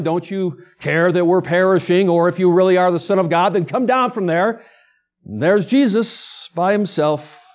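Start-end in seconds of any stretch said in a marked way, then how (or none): 0.0-4.6 a touch of jeering, a little louder; understated mocking call; mild mock taunting. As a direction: taunt him lightly from below the cross. Mockers yelling at Jesus on cross.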